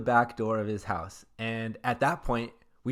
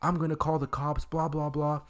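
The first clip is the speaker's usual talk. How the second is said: mild mock threat; 4 semitones higher than usual. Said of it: "he basically yells at us".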